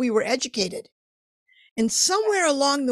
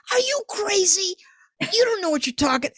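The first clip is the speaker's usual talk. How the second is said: higher, fast doubting inner voice; mocking inner critic; 8 semitones higher than usual. Inner voice doubting the young artist, higher and quick. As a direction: let the inner critic needle you. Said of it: "that dialogue in my head's going".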